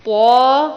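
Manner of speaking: طا said heavy and full-mouthed. Shown as a demonstration. Teacher modelling a heavy طا. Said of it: "طا کو موٹا پڑھنا ہے".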